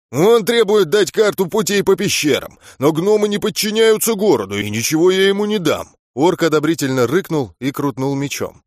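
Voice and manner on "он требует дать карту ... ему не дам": loud, higher furious bark; angry old gnome. Acted. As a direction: snap angrily at the guard. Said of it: "Старый гном злобно рявкнул".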